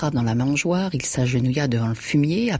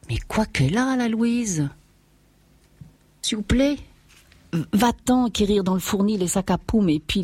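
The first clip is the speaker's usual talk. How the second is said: worried farmer; 4 semitones higher than usual. Acted. Farmer frets over sick cow.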